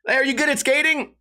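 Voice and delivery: put-on high, eager kid calling out; mock kid voice. Kid on a bike to the comedian, high eager voice. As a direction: play the eager kid who rode up.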